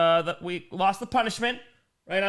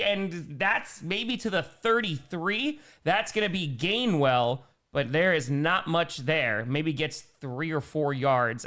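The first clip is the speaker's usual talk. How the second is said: drawn-out sportscaster call; excited start, slowing and dropping as the play ends; live play-by-play; slower than usual. Real, not acted. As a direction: call the short gain deliberately. Calls the game live.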